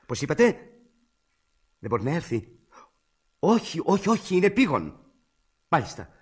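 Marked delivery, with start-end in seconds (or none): 3.4-5.0 loud, high repeated protest; urgent insistence. Acted. Caller insists the doctor must come, urgent and loud. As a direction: cut in urgently, voice raised.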